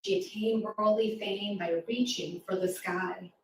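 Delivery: rhythmic rhyming poem read to a class; poem recital. Acted. Reading a rhyming poem aloud.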